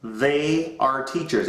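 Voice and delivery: They are teachers, slow, stress on they; slow model sentence. Shown as a demonstration. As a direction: model it slowly for the class to repeat. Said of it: "Everybody repeat that".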